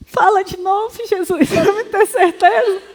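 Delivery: high, slow, tearful laugh asking again; laughing plea. Retold or imitated. Man pleading to hear again. (pedido risonho e emocionado)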